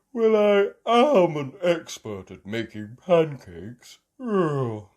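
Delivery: lightly voiced dad bragging; proud daddy pig. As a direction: puff up like the pancake expert.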